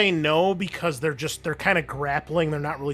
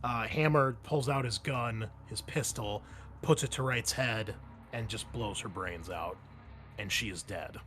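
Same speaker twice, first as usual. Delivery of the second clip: game master narration. A narrator's reading. Game master telling players of an execution, grim narration. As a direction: narrate a grim scene, trailing down to softness.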